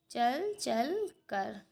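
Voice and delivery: चल चल कर drawn out very slowly, word by word; slow dictation. Shown as a demonstration. Teacher to pupils writing the answer, very slow dictation. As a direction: spell it out slowly so children can write. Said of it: "teacher repeats example slowly".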